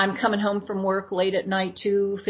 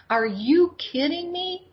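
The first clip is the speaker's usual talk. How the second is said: stunned disbelief; 9 semitones higher, slower than usual. Retold or imitated. Floating above the pavement, disbelief.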